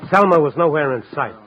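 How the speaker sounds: hard-boiled private-eye narration over music; noir narration. A narrator's reading. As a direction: tell it like a tired newspaperman recalling the night.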